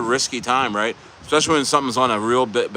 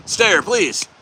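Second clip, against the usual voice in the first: higher, fast, pleading mock voice; mocking pleading troll; 4 semitones higher than usual. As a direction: mimic a fake-caring troll, rushed and higher. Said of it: "coming on being like".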